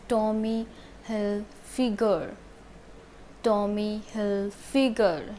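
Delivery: Hilfiger as "HIL-fi-ger", hard G; Tommy Hilfiger with a short "fi"; correct Hilfiger pronunciation. Shown as a demonstration. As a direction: say Hilfiger in careful syllables. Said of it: "the correct pronunciation of this brand is".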